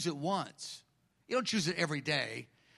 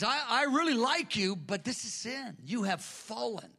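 Jesus voiced; 6 semitones higher than usual. Jesus rebuking the church, lightly voiced high then hushed. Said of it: "And he says".

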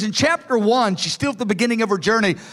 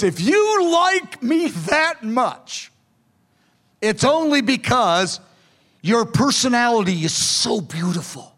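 thrilled bride. Retold or imitated. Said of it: "She is so thrilled".

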